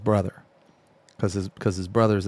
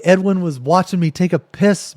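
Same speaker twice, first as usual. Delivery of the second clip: agitated; 7 semitones higher, 5 dB louder than usual. Retold or imitated. Urgent complaint to friend.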